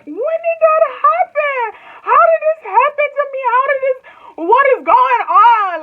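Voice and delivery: high, loud, panicked, slow disbelief; shrill mock panic, stretching each word; panicked realization. Imagining future self, panicked and disbelieving. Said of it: "you'll look back and be like".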